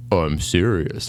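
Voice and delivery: put-on toddler putting on a deep voice; mock deep voice. Dad imitating his toddler mocking his warning, mock deep. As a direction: imitate a kid parroting dad, hammed-up. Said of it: "And it's like deep".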